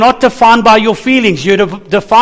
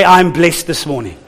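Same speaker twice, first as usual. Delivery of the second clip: with a bit of fervor; 3 semitones lower than usual. Shown as a demonstration. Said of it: "say it with a bit of fervor".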